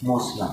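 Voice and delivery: مسلم said muslam, A for I; Punjabi-style vowel. Retold or imitated. Teacher mimicking Punjabi speakers, مسلم said as muslam. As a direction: say مسلم with an A in the last syllable. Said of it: "کسرہ ہو وہاں پہ زبر پڑھتے ہیں".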